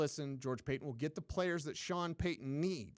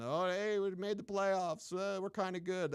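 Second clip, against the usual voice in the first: mock smug Minnesota; 5 semitones higher than usual. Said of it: "be damn Minnesota".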